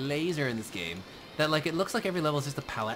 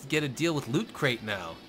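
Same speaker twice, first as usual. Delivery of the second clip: usual speaking voice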